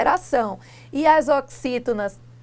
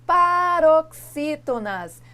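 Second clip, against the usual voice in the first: "paroxítonas" drawn out slowly and stressed; slow emphasis; 4 semitones higher, 3 dB louder, much slower than usual. Shown as a demonstration. Teacher stressing the rule word for students. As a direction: lean on the key term. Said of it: "caiu o acento dos ditongos".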